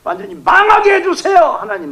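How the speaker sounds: preacher acting out a raw prayer; vengeful prayer. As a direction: demand God shame them. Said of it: "막 이렇게 기도하는 거죠".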